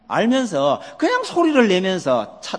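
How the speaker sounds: ordinary talk, nothing marked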